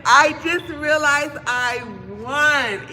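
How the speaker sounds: high squealing delight, drawn out; shrieking jackpot winner. Real, not acted. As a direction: squeal like you just won big. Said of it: "Let me know when you're done celebrating".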